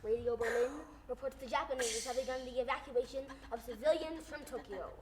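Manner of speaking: lightly voiced old news bulletin; wartime newscaster. Imitating Morgan Beatty reading a war bulletin, lightly voiced. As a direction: read it like a wartime radio report. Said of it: "reports made by the famous newscaster".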